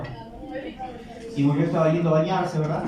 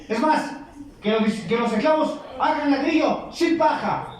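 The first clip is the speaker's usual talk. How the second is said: much higher, scornful with a laugh; mocking pharaoh; 9 semitones higher than usual. Pharaoh scoffing at Moses, high with a laugh.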